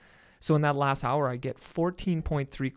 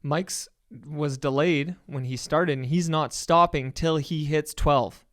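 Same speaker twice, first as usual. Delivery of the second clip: mock announcer. Host announcing the runner won't stop. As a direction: ham up the host announcing the extra time. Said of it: "And then you're like".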